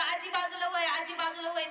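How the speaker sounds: a driver's call to get out of the way; mock shout. Tractor driver shouting at granny in the road, mild mock call. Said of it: "किती जोरा जोरात ओरडत होता".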